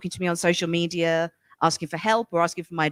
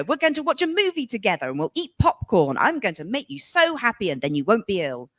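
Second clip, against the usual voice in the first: lightly voiced overeager jolly parent; 3 semitones higher than usual. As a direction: pump up the cheer a little, imitating. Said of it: "Be so jolly".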